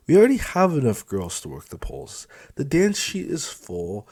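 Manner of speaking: high, loud, leering; leering sing-song on lucky; smug supervisor. Acted. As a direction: tease the girls with a wink. Felix explains the job.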